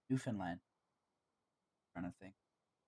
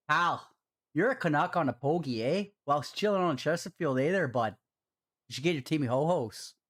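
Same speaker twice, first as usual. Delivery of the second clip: donation read out in a Canadian accent; typical Canadian accent; 3 semitones higher, 4 dB louder than usual. Shown as a demonstration. Streamer redoing a viewer's donation message, in a typical Canadian accent. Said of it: "say that in your typical Canadian accent".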